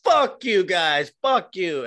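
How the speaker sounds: hammed-up fury at the crowd; mock angry yell. Host imitating fighter cursing booing crowd, mock angry shout. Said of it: "she's like".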